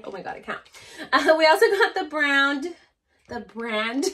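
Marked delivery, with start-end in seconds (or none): 1.1-2.6 laughing through the accented "brown". Real, not acted. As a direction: giggle through the slip again. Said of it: "Where is this accent coming from?".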